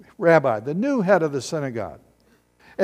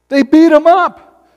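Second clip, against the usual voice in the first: They beat him up, beat hit higher, louder and slow; stress on beat; 10 semitones higher, 11 dB louder, slower than usual. Shown as a demonstration. Preacher stressing what the crowd did, beat punched loud. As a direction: punch the word beat hard. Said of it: "Can we say the word beat".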